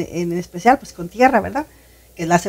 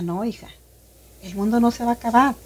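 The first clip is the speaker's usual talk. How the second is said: softly voiced, reassuring mother; a mother's quiet, retold reassurance; 6 dB quieter than usual. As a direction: gently reassure a child, much softer. Mother reassures her child in retelling.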